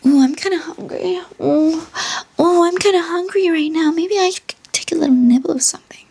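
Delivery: high, lightly voiced coy cat; a hint of a sly cat. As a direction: play the cat sweetly fishing for food. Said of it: "She's like".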